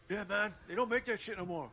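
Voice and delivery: stoner dude voice. Acted. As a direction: lean into the stoner friend. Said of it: "like my friend said".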